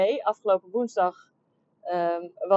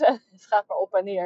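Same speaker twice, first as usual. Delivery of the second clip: laughing through the words. Real, not acted. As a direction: chuckle while saying it. Laughs about the price swings.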